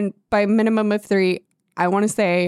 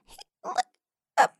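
hushed, high, whispery squeak; mock secretive little voice; imitated coaxing; 6 dB quieter than usual. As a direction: coax in a tiny high whisper. Imitates girl coaxing boy in attic.

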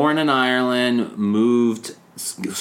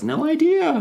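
mock Rose. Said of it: "and then she says".

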